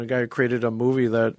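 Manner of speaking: ordinary delivery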